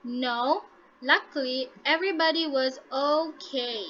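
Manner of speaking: OKAY falls in pitch at the end; falling intonation. Shown as a demonstration. Teacher demonstrating the first example to students, falling intonation. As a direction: let the pitch drop on "okay". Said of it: "your pitch is going to be falling".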